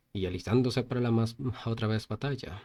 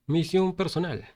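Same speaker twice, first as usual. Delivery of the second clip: system message voice. Acted.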